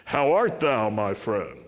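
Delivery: King James English. Shown as a demonstration. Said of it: "speaking King James English".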